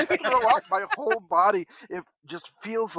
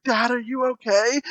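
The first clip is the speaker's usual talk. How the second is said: higher-pitched worried little kid, lightly voiced; crying child imitation; 6 semitones higher, 4 dB louder than usual. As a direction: imitate your upset son asking. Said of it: "he's crying".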